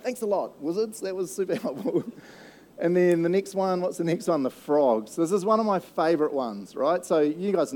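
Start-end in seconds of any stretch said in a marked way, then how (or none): 0.0-2.0 dry, mock-grateful sarcasm; sarcastic thanks. Preacher mocking Pharaoh's wizards, light sarcasm. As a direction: thank them with a roll of the eyes. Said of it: "which I'm like".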